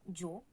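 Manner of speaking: "yo" begun with a J sound, like "djo"; hard-J "yo". Shown as a demonstration. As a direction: say "yo" with a hard English-J onset. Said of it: "On dit juste".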